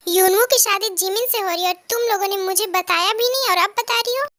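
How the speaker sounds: mildly indignant complaint; acted annoyance, demanding an explanation; a touch of hurt outrage; mildly angry. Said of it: "तुम इतना गुस्सा क्यों कर रही हो".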